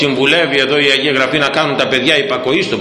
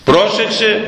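"Πρόσεξε" called out higher as a stern warning; raised warning; 8 semitones higher, slower than usual. Real, not acted. Preacher warning the congregation, "Πρόσεξε" raised high. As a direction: lift the voice on "Πρόσεξε" to grab attention.

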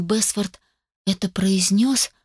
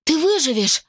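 horrified cry; 9 semitones higher than usual. A narrator's reading. Carrie cries out at Stan calling himself a corpse, horrified. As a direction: cry it out in terror.

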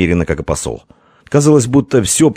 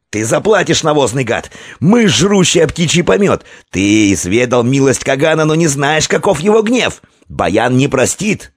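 furious yelling; 8 semitones higher than usual. A narrator's reading. Envoy to the prince, frenzied shouting. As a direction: scream back.

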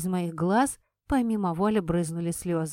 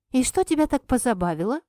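angry; 5 semitones higher, 4 dB louder, faster than usual. Acted. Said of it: "сердито уточнила у него".

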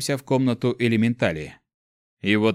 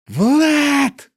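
high, loud yell of a name; sudden yell; 7 dB louder than usual. Acted. The girl suddenly yells for Vlad across the room, loud high call. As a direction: bellow his name out of nowhere. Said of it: "внезапно заорала она".

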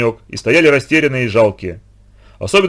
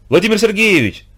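high joyful cry of his name; excited exclamation; 8 semitones higher than usual. A narrator's reading. Zoyka greeting the returning teacher, glad high exclamation. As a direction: call out his name with delight. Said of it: "воскликнула Зойка".

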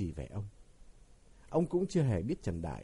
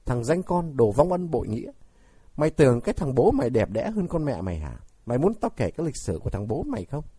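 furious roar, much louder, spat at her son; 3 semitones higher, 10 dB louder than usual. Acted. Mother roaring insults at her ungrateful son, furious shout. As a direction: bellow it out in bitter rage. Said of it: "bà gầm lên".

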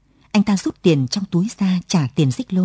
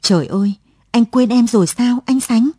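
sobbing plea; 5 semitones higher, 4 dB louder than usual. A narrator's reading. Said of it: "Lụa khóc nức lên".

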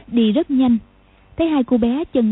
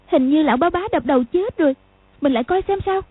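put-on little girl voice; 5 semitones higher, faster than usual. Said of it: "nói".

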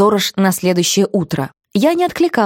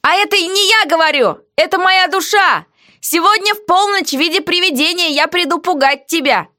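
heroine's quoted voice, higher; defiant heroine; 9 semitones higher than usual. Acted.

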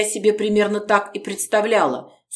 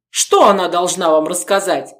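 louder, sharp challenge; raised voice; 5 dB louder than usual. Acted. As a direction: raise the voice at the guest. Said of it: "повысил он голос".

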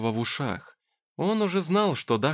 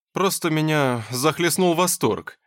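mock serious; 4 semitones higher, 4 dB louder than usual. A narrator's reading. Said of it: "серьёзно сказал Плахов".

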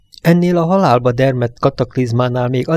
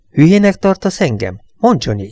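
higher, sharp indignant challenge, stress on "Hülyének"; angry retort; 4 semitones higher than usual. Acted. Gerard snapping back at Johnny in the quarrel, indignant and higher. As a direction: fire back, offended, hitting "Hülyének" hard.

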